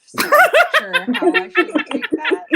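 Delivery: loud high laughing remark. Real, not acted. Laughing about dramatic chicken.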